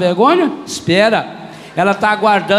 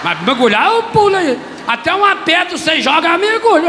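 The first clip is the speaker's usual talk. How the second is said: boastful joke; 8 semitones higher than usual. Retold or imitated. Joking boast about diving.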